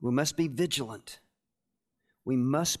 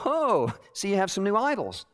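high-pitched exclaimed discovery; mock surprise; 5 semitones higher than usual. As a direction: gasp out a pretend discovery. Acting a surprised room inspector.

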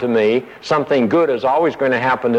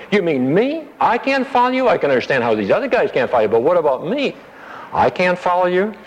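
higher, hurt disbelief as Peter; indignant Peter; 7 semitones higher than usual. Acted. Peter protesting to Jesus, incredulous and high.

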